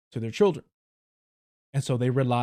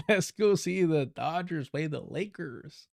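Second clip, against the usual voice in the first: put-on slow, light LA Chicano cholo accent, laughing; cholo accent imitation; 3 dB quieter, slower than usual. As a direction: echo the clip's cholo voice from Los Angeles, drawn out. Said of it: "Los Angeles sort of Mexican cholo vibe".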